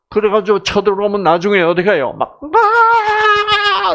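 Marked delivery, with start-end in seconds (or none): 2.4-3.9 high, sudden cry of frustration; mock scream. Shown as a demonstration. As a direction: burst out in a shriek. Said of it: "이러잖아요". (높고 날카로운 비명)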